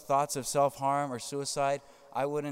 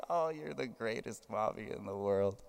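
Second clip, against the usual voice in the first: put-on baby's adoring thought; 2 semitones lower, 4 dB quieter than usual. Baby voiced in a story.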